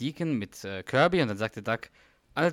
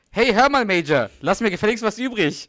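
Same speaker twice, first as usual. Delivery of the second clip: much higher and louder, jokingly bossy; mock shout; 9 semitones higher, 9 dB louder than usual. The speaker yelling at the breastfeeding baby Major, a mock outraged shout. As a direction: yell it like a jealous dad hamming it up.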